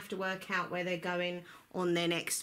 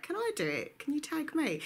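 excited; 6 semitones higher than usual. Retold or imitated. Eager quote of herself.

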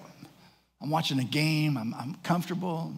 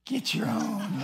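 higher, drawn-out deadpan refusal; smug payback; 5 semitones higher, much slower than usual. Retold or imitated. Dad answers son's Game Boy plea, smug. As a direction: savour the payback.

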